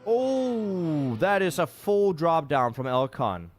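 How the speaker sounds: sudden high "Oh" then a slow dismayed call; surprised. Real, not acted. Caster reacting live to a player's fall, surprised. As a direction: gasp at the crash, then spell it out.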